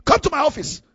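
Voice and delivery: scold, then order them in sharply; stern retold summons. Pastor calls the speaker into the office, stern summons.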